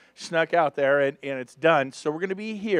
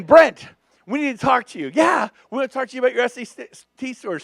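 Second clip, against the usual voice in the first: voicing school officials; 5 semitones higher than usual. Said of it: "They called Brent in".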